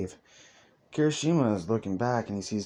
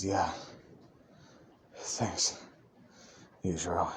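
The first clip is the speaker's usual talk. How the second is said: soft, low and halting; small, drained voice with long pauses; subdued thanks; 4 semitones lower, 7 dB quieter than usual. Acted. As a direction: quietly thank a friend after catching your breath. Shaken friend answers after breathing out.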